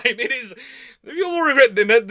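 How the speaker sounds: ordinary talk, nothing marked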